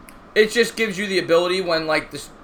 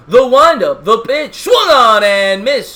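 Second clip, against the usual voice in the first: louder, higher excited strikeout call; baseball announcer voice; 5 semitones higher, 9 dB louder, much slower than usual. Acted. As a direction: belt out the big strikeout call. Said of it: "Patrick likes the baseball announcer voice".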